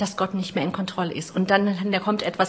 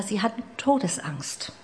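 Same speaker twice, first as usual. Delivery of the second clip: dramatic whisper; 5 dB quieter than usual. Acted. Preacher telling of the disciples' terror, in a whisper. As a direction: whisper it, hushed and tense.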